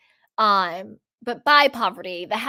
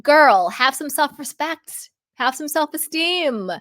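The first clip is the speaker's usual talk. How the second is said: sassy scolding; 7 semitones higher, 4 dB louder than usual. Acted. Scolding the pick-me girl.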